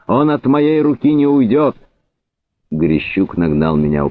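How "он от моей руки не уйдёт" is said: high-pitched vow of vengeance; angry shout. A narrator's reading. Cossack restrained from shooting, shouting his threat. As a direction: cry it out high and insistent. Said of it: "крикнул Афонька".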